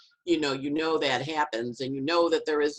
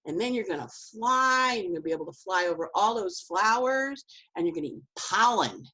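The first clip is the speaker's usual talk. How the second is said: dramatic interpretation; 3 semitones higher than usual. Acted. Somebody breaking the news to the caterpillar, mild drama. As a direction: lightly play the one who knows what's coming. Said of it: "with dramatic interpretation".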